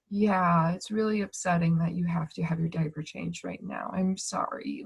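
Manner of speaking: hushed, tender comfort, mostly whispered; soothing whisper to a baby. Retold or imitated. Mother soothing her baby through a diaper change, hushed and tender. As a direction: gently whisper it like calming a fussy infant.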